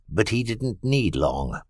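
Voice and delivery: ordinary delivery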